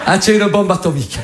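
hammed-up Marseille chat-up; Marseille flirt. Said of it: "une fille qui se fait draguer à Marseille".

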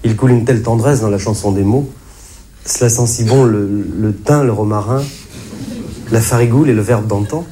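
a light Provençal lilt; accent provençal. Shown as a demonstration. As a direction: recite it with a touch of Provençal accent. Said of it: "prenez l'accent provençal". (léger accent provençal)

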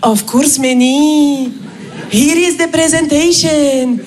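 put-on slow, blissful Indian-accented English; lightly imitated Indian accent; Indian colleague. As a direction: float on pure contentment. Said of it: "Raj me répond".

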